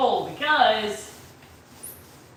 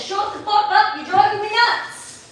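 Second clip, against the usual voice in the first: higher-pitched mock scolding; exasperated quote; 6 semitones higher than usual. Carrie driven nuts by the accent, mock exasperation. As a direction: imitate someone fed up, pitched up. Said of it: "she says".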